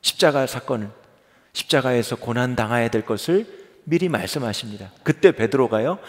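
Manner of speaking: ordinary talk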